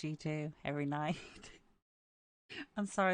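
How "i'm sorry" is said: apologizing through laughter; amused, laughing as you talk. Real, not acted. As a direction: let giggles break into the apology. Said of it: "I'm laughing so much".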